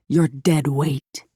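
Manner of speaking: slow, cold and eerily even; a flawless double passing judgment, slowly; the perfect double's slow, uncanny verdict. A narrator's reading. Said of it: "in an eerily perfect voice".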